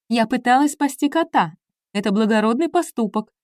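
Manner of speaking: squeal. Acted. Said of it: "взвизгнула Билли".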